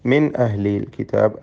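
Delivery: മിൻ with a plain, short n before അഹ്ലിൽ; clear unhummed noon. Shown as a demonstration. Teacher shows students clear pronunciation, മിൻ without nasal hum. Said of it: "സാക്കിനായ നൂനിനെ അല്പം പോലും മണിക്കരുത്".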